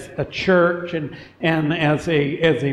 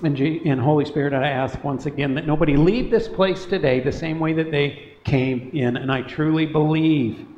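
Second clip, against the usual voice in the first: earnest prayer. Acted. Leads a prayer.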